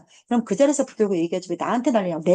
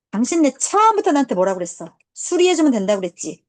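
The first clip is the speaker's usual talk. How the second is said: raised, higher voice, confronting; retold yelling; 4 semitones higher, 4 dB louder than usual. Confronting the other shop's people over the repair, raised retold yell. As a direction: reenact a loud telling-off. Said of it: "나 소리 지르면 아무도 내 목청을 못 따라하거든".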